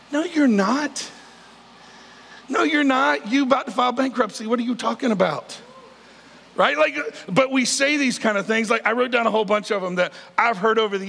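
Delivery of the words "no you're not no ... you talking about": pitched up, calling their bluff; mock retort. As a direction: playfully shoot down the fake answer. Mock retort to a fake greeting.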